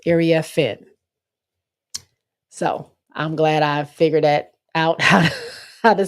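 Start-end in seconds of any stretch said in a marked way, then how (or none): 0.1-0.8 "Area Finn" as air-ee-uh-FIN; demonstrated name pronunciation. Shown as a demonstration. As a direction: say "Area Finn" carefully, landing on FINN. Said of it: "that's what it is".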